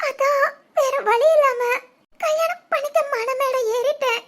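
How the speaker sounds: crying as she explains, slowing near the end; tearful explanation. Acted. Bride explaining why she married him, crying. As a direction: let the tears break through the words. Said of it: "அழாதீங்க".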